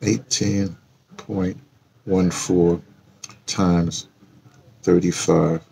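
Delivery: one word at a time, long gaps between; halting, absent-minded calculator self-talk; reading while typing. Real, not acted. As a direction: say each figure as you key it in. Entering figures into a calculator.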